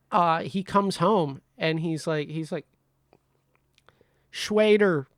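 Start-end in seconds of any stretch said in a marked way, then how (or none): 4.3-5.1 whispered name. Retold or imitated. Brother retold, whispered name.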